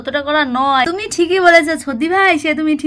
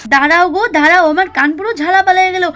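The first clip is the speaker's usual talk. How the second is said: irritated loud complaint; 4 semitones higher, 4 dB louder than usual. Acted. Ears ringing from horn.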